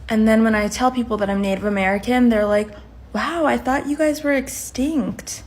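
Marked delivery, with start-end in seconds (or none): 3.1-5.4 slow, higher imitated amazement; mock astonishment. People learn she is Native American, mock astonished. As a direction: marvel slowly, like a clueless stranger.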